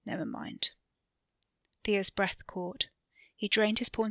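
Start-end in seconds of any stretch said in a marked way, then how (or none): 0.0-0.7 soft, voiceless whisper; intimate whisper. A narrator's reading. Wesley drops the subject with Theo pulled close, whispering. Breaking off, foreheads nearly touching.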